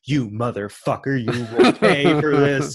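half-laughing imitation of an angry caller; mock threat. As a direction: lean hard on the words like a hammed-up extortionist. Retold phone threat from extortionist.

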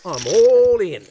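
put-on a poker player faking an Aussie accent to bluff; bad Australian accent. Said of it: "I know my accent sucks".

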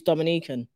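"Dominican" with a long NEE; "Dominican" as dom-i-NEE-kun, meaning from Dominica; contrasting pronunciation. Shown as a demonstration. Explaining the nationality to a co-host, "Dominican" as dom-i-NEE-kun. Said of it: "Dominican is different to Dominica".

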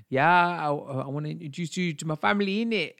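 imitating a London guy in mock Cockney; Cockney accent. Retelling a London admirer's voice note, in Cockney. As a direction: put on a rough Cockney impression. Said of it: "that's my impression of a Cockney accent".

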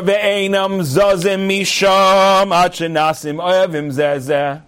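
slow, sing-song study chant; Talmud recitation. Shown as a demonstration. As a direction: intone the old text in long drawn syllables.

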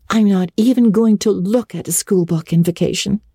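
a chattering schoolgirl; eager girl Anne. A narrator's reading. Anne announces her summer plans to Marilla, eager.

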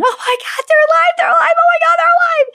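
shrieking that the lost chickens are alive; joyful scream. Retold or imitated. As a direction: scream it out, overjoyed and stunned. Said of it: "I screamed".

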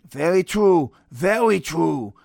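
lightly voiced cartoon Elmer Fudd take; Elmer Fudd Mister Fuji. Podcaster imitating wrestling manager Mister Fuji, mock Elmer Fudd voice. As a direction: draw it out like a mild Elmer Fudd. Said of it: "that's my Elmer Fudd, Mister Fuji".

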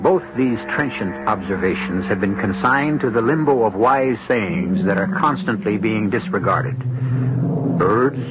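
measured, ominous host voice; radio host intro. Acted. Host greets the radio audience, measured and ominous. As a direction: welcome listeners into a dark tale.

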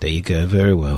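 a quick mock Korean accent slipping out. Host praises a quiz answer in a mock Korean accent. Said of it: "I don't know what that accent was then".

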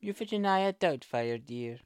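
lightly done Mrs Doubtfire. Retold or imitated. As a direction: put on the old nanny. Mrs Doubtfire catchphrase impression.

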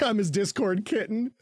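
teasing put-on pet voice; mocking quote. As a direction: coo it like a pampered pet. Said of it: "his response".

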